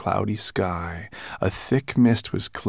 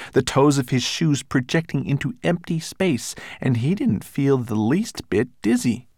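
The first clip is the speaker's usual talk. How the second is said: lively dramatic narration; 6 semitones higher, 6 dB louder than usual. A narrator's reading. Narrates the hat rescue dramatically.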